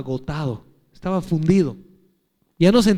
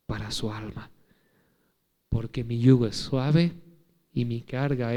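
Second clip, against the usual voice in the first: tender invitation; 3 semitones lower, 4 dB quieter than usual. Acted. Quoting Jesus' invitation tenderly.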